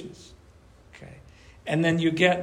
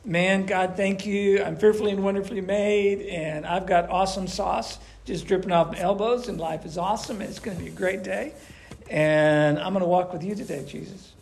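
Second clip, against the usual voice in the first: upbeat self-talk; 2 semitones higher than usual. Retold or imitated. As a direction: gush with thanks like a great morning. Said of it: "you look in the mirror and you go like".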